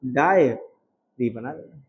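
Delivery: slow it right down; slow deliberate reminder. Shown as a demonstration. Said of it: "जब डायरी बोले".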